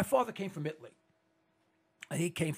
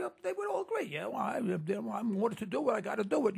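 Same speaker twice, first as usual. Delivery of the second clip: lightly voiced young soldier, higher, shrugging it off; a hint of a recruit excusing himself; mock soldier; 4 semitones higher than usual. Host mocking young recruits who just obey orders, lightly voiced. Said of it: "And we say".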